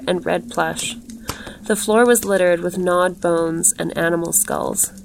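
measured, even literary reading; story narration. A narrator's reading. Narrator describing a glittering woman in green silk, measured storytelling. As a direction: read the tale aloud evenly, with care.

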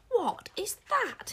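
disbelief. A narrator's reading. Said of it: "hissed Queen Sycorax in disbelief".

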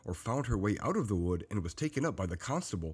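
measured, lilting fairy-tale read-aloud; storytelling narration. A narrator's reading. Narrator tells the tale of the three bears, storytelling. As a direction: read it out carefully like a bedtime tale.

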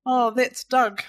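put-on high-pitched, slow Pacific Island accent; high, gentle monster with a Pacific Island accent; Taika Waititi. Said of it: "that high-pitched Pacific Island accent that Taika Waititi does".

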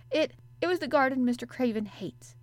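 a touch of nerves, tripping on the start; nervous. A narrator's reading. Girl nervously telling the boy about the garden, uneasy. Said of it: "she said nervously".

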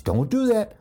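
teacher warning people off the forbidden thing; mock scold. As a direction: snap it like a parent forbidding. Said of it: "And that's".

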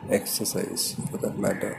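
words stretched through a yawn. Real, not acted. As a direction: talk while yawning, half-voiced. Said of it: "I'm sorry, I was yawning".

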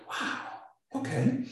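soft, hushed little reaction; retold stunned reply. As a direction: answer quietly, as if taken aback.

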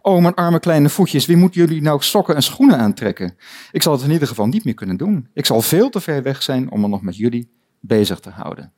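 put-on a storybook girl wailing over her poor feet, fading to calm; Alice's mock lament. Lecturer reading Alice pitying her faraway feet, hammed-up lament.

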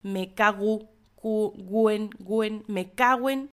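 "me cago en" blended into "me caguen"; run-together cagu en. Shown as a demonstration. Teacher shows how the curse is really said, run together. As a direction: slur cago and en into one word. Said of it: "la pronunciación más propia es".

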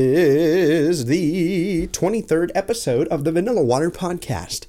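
lightly done slow radio announcer intro. Pretend. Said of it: "that was my radio announcer voice".

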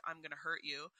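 low, soft menacing voice; a quiet low threat; menacing child. Retold or imitated. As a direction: daughter threatening her mother, low and soft. Voicing daughter's menacing look.

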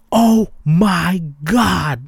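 slow, drawn-out, loud "Oh my God"; horrified gasp. Retold or imitated. Girlfriend looking back in horror, drawn out. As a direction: stretch it out in shock. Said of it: "She's like".

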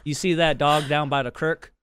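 light Utah tang, "creek" as "crick"; Utah twang. Shown as a demonstration. Local showing off the accent, light Utah twang. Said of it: "little twang in our, in our accent".

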